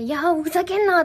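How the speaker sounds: 少し大きめの抗議の叫び真似; 捕まって暴れる人を軽く演じて; じたばた抵抗する真似. Acted. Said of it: "とか言ってジタバタしながら". (ふざけ半分の抗議)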